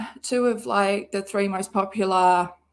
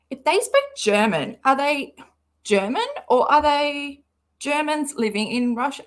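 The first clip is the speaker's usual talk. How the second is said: a lightly put-on dopey voice, a bit higher; mock the writer as a simpleton; dumb voice; 4 semitones higher than usual. Shown as a demonstration. Mocking the post writer in a mild dumb voice. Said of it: "I just want to do this in a dumb voice".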